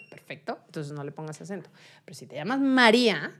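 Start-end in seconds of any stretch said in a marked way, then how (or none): 2.1-3.3 María with the I stressed; María as three syllables, ma-RÍ-a. Shown as a demonstration. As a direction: lean on the I in María. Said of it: "tiene una carga tónica en la I".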